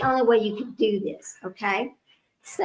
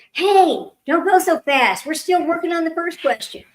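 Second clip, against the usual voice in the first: raised, higher voice of a player objecting; mock calling out; 5 semitones higher, 5 dB louder than usual. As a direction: call out a playful protest to the host.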